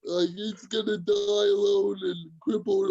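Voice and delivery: lightly put-on Dublin accent; imitated Irish heckler. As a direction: jeer like a caller from Dublin. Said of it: "harassing me on Facebook Messenger from Dublin".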